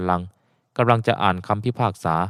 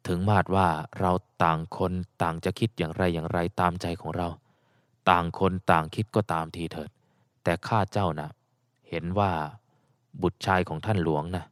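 put-on old official's voice; 3 semitones lower, 7 dB quieter than usual. Old official addresses his friend.

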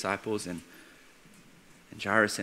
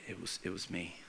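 very soft, low admission; timid confession; 3 semitones lower, 11 dB quieter than usual. Acted. Young girl admitting she touched Jesus, timid and hushed. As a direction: own up quietly and hesitantly.

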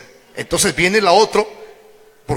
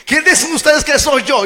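pressing question; 8 semitones higher, 5 dB louder than usual. Acted. Jesus presses the question again.

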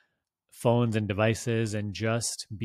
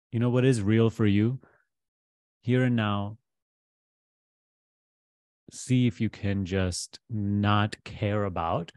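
measured guidance with long pauses; guided meditation; 3 dB louder than usual. Real, not acted. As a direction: guide the listener gently into letting go, pausing between phrases.

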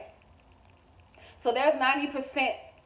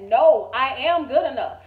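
loud, firm retold declaration; emphatic self-affirmation; 8 dB louder than usual. Woman retelling her words to herself in the mirror, loud self-affirmation. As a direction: declare it loudly, as to your own reflection.

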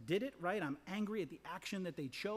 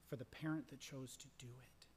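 whispered; 3 semitones lower, 6 dB quieter than usual. Real, not acted. Preacher speaks tenderly of parents.

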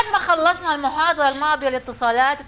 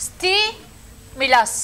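stimulus drawn out very slowly, syllable by syllable; slow model word; much slower than usual. Shown as a demonstration. Teacher models the word for students, drawn out. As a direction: stretch stimulus out so students hear each part. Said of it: "الكلمة المشهورة هذه".

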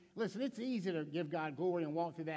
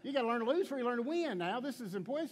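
mock stubborn insistence; 5 semitones higher, 4 dB louder than usual. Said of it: "I'm like".

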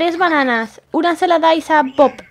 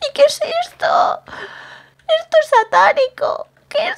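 spooked; 9 semitones higher than usual. Pretend. Finds an eerie room under the house.

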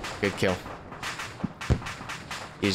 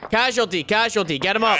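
man down; 5 semitones higher than usual. Real, not acted. Calling out a wounded man.

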